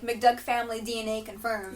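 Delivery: lightly voiced computer announcement; a hint of a robot voice. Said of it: "a little robot voice is like".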